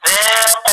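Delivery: ذاق recited alone, final long aa held two counts; two-count madd on stopping. Shown as a demonstration. Teacher showing the stop on a word, final vowel lengthened. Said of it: "بقف عليها بمد حركتين".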